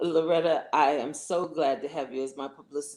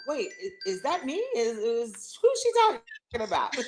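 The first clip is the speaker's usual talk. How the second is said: higher, rising, playfully incredulous; mock disbelief; 4 semitones higher than usual. Guest mimics herself at the mirror in higher, playful disbelief. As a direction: act amazed at your own reflection. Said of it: "look in the mirror and go".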